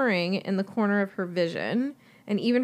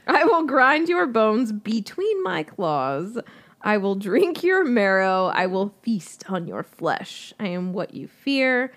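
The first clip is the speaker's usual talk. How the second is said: ancient hollow voice; 3 dB louder than usual. Acted. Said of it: "hollow voice whispered to her".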